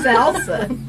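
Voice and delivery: "Salsa" said the Spanish way, with open a sounds, the way Janice says it; Janice's salsa. Retold or imitated. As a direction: echo Janice's "Salsa" with a light Spanish touch. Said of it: "that's another word Janice says all the time".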